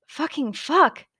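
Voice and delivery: high, slow, drawn-out curse; aroused curse. Acted. Denki on the phone, cursing slowly in pleasure. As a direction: drag it out, overwhelmed.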